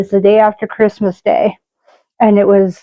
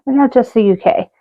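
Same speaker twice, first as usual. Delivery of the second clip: a mock British accent, lightly done; a hint of a British accent; terrible British accent. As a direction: put on a bad British accent. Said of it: "Yes, I know that was a terrible accent".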